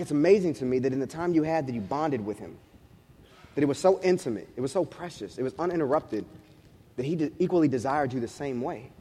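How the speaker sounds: soft, low, sincere amazement; quiet wonder. Retold or imitated. Husband to wife about bonding with baby, softly awed. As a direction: bring it down soft and reverent.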